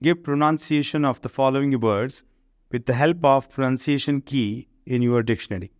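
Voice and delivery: slow, careful reading of the English rule; slow textbook reading. Shown as a demonstration. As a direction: read the rule out word by word for the class. Reads exercise instruction slowly. (انگریزی قاعدہ آہستہ آہستہ پڑھ کر سنانا)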